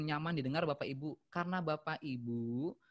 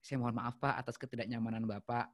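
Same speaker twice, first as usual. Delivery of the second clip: apologetic; 5 semitones lower than usual. Shown as a demonstration. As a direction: apologize gently to calm him. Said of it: "Itu bentuk empati".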